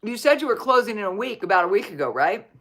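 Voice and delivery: talking between slurps of a drink; slurping. Real, not acted. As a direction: slurp a drink mid-sentence. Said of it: "Sorry for my slurping".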